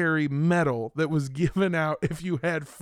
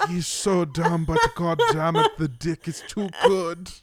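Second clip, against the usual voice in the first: laughing quote; 2 semitones higher, 5 dB louder than usual. Retold or imitated. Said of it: "she's just describing, like".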